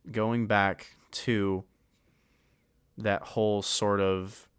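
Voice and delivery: slow, halting, losing the thread; trailing off. Real, not acted. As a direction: drag it out while searching for words. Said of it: "I lost my fucking train of thought".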